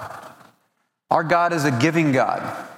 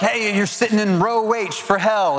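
higher, pointed preacher call; mimicking the camp preacher calling out; retold preacher warning; 7 semitones higher than usual. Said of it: "he went on and was like".

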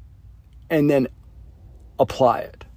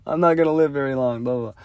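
higher, whiny mock complaint; imitating a sulky client, pitched up; pissy customer; 5 semitones higher than usual. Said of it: "he just got all pissy".

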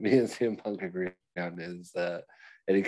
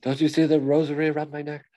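louder, higher hammed-up tough-guy boast; mock tough guy; 6 semitones higher, 5 dB louder than usual. Mocking the wrestler boasting about his rosary, hammed-up. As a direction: brag about the rosary like a fake gangster.

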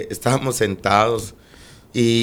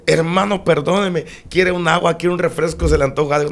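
lightly imitated apology, pitched up; apologetic usher; 5 semitones higher than usual. Usher offering drinks to the snubbed preacher, mock-apologetic. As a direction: mimic someone falling over himself to apologise.

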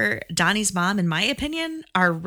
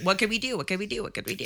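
mock brainstorming, fading softer with each repeat; fretful brainstorming; 2 semitones higher, 7 dB quieter, faster than usual. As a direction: repeat it like a stuck thinker, trailing away. Acting out desperate brainstorming by filmmakers.

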